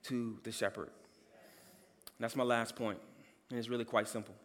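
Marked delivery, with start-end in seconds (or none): 0.0-0.9 soft restatement. Shown as a demonstration. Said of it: "Let me say that".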